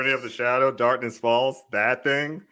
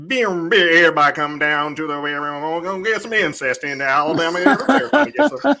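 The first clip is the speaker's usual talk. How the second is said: mock yelling; 6 semitones higher than usual. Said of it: "I'm like".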